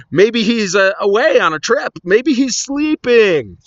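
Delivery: high-pitched taunting suggestions; mocking taunt. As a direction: jeer loudly, stretching out the last taunt. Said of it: "and he's mocking them".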